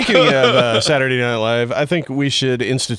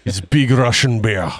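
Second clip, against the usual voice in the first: put-on Russian accent; slower than usual. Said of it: "tattoos in a Russian accent".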